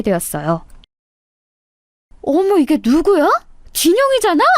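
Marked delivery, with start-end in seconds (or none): 2.2-4.4 high, gushing classmate voice, overly sweet; a show-off old classmate faking delight at the reunion; fake-friendly classmate. 동창 가인의 과장된 인사. (과장되게 반가운 척하는 높은 목소리)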